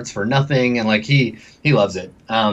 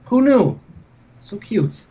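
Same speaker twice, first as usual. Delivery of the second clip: much higher, sing-song sarcastic coo; mock cooing; 7 semitones higher, slower than usual. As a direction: gush over it with fake sweetness. NPC mocks the news.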